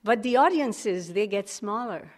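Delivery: a poem read out with punchy stresses. Acted. Reading his friends' punk poem aloud to the room, recited. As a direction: recite the punk poem, lines hit one by one. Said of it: "So the poem goes like this".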